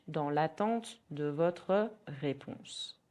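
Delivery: slow, careful French; slow model phrase. Shown as a demonstration. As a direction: model it slowly. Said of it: "In French".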